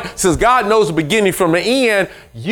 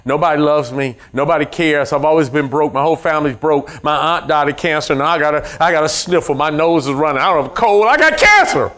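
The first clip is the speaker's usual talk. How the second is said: self-pitying complainer; 3 semitones lower than usual. Retold or imitated. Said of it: "but people".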